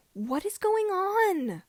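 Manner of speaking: high, loud, slow shout. Acted. Luke interrupts the fighters, shouting high and loud. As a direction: yell it out to stop the duel. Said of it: "Luke shouted".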